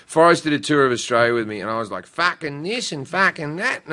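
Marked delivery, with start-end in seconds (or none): 2.1-3.8 lightly put-on Australian accent, slowed down; imitating yourself gone Aussie; broad Aussie accent. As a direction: slip into slow Aussie swearing. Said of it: "I Aussie up real fucking quick".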